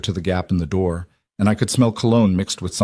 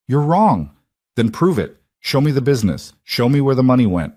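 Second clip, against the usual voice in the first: heated challenge; 4 semitones higher than usual. Acted. Confrontation on the phone.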